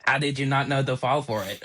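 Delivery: lightly voiced manager; a hint of the manager's questioning voice; manager impression. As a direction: imitate the boss, slightly put-on. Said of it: "I love doing his impression every time".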